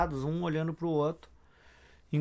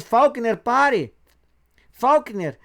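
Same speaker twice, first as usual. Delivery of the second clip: high, loud shout of a name; calling out; 7 semitones higher, 8 dB louder, much slower than usual. A narrator's reading. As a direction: yell after him to stop. Tex calls the fleeing senator. (gritando para o senador parar)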